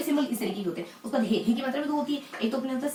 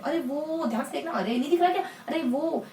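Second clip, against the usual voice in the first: pointing someone out; 3 semitones higher than usual. Shown as a demonstration. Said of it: "आप किसी को इंगित करके बोल रहे हैं".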